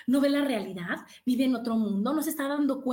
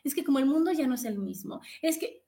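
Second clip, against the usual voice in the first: mock self-pity; 2 semitones higher than usual. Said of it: "A decir".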